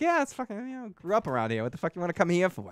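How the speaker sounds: high, fast, mock-baffled local; incredulous local. Telling listeners how a local reacts to tourists, high mock disbelief. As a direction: imitate a local scoffing at tourists. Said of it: "So I'm like".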